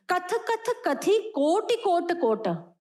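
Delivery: कथ कथ कथी कोटि कोट कोट read slowly, word by word; careful verse reading. Shown as a demonstration. Teacher checking how the verse is read, careful slow recitation of "कथ कथ कथी कोटि कोट कोट". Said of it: "ऐसा ही पढ़ेंगे, यही राइट पढ़ा".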